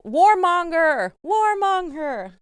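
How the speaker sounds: chanting it like the crowd did; retold protest shouting. Retelling the Belfast crowd chanting the accusation, slow and loud. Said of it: "they were shouting".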